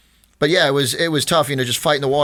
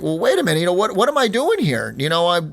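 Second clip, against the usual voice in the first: higher, exasperated retold complaint to the roofers; frustrated outburst; 5 semitones higher than usual. Retelling how he complained to the roofers, mildly exasperated and higher. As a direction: pitch it up in mild mock exasperation. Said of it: "And I'm, and I'm really frustrated".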